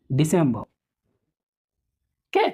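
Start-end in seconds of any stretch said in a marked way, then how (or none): 0.1-0.6 दिसंबर said as "disemb", falling at the end; model pronunciation. Shown as a demonstration. Teacher to class, answering how to say दिसंबर. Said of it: "क्या होता है".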